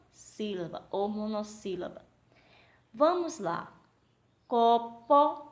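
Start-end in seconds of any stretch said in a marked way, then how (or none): 4.5-5.5 CO - PO in two loud beats; syllable by syllable. Shown as a demonstration. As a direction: split "Copo" into two separate syllables. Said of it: "Quantas emissões vocês fizeram?".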